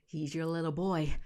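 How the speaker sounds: put-on her own dramatic take on "boy"; acted reading, landing "boy" with a fall; hammed-up actor read. Shown as a demonstration. Vlogger shows how she would deliver the line, hammed up. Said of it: "I should be an actor".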